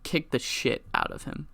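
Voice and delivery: hushed, breathy whisper; unvoiced conspiratorial whisper; whispered order. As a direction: whisper the command so only Tribal hears. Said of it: "he turns to Tribal Ward and he says".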